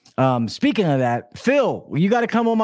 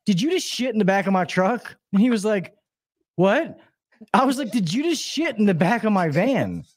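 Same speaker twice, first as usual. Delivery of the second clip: higher-pitched disbelieving retold question; incredulous question; 4 semitones higher than usual. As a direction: confront him in stunned disbelief. Retelling incredulous confrontation of worker.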